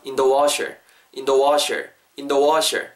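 "in the" unstressed, weight on "washer"; stress on WASHER. Shown as a demonstration. Teacher models preposition stress, "washer" stressed after weak "in the". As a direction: lean on "washer", pass lightly over "in the". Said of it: "전치사에는 강세가 기본적으로 잘 안".

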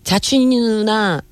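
lisping 자춘이 누나 with a slushy sh; 자춘이 누나 said with a short-tongue lisp. Real, not acted. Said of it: "나 왜 혀 짧은 소리 하지?".

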